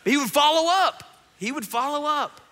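high, loud emphatic repeat; emphatic shout. Real, not acted. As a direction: belt it out to the whole crowd. Playful emphatic repeat to crowd.

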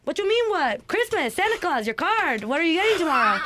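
high-pitched incredulous questioning; retold kid's astonishment; acted disbelief. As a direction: act baffled at the other kids, laughing by the end. Retells baffled exchange with the girls.

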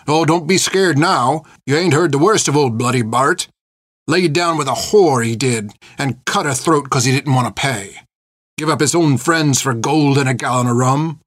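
old pirate mocking his own crimes; bitter taunting. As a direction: taunt her with mild menace. Old pirate taunts frightened girl.

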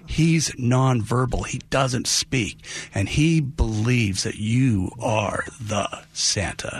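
drawn-out, weighty retelling; slow right down, letting each phrase land; slow, earnest explanation. Retold or imitated. Mother explains her son to Santa, slow and earnest.

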